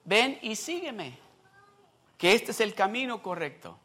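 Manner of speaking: gentle call. Retold or imitated. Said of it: "Quién es el que le dice".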